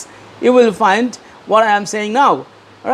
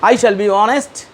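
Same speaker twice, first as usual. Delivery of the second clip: leading a pledge; 2 semitones higher than usual. Shown as a demonstration. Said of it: "Say with me".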